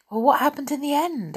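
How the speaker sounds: high, quick eager question; eager girl asking for the ending; excited. Acted. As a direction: hurry to hear the end.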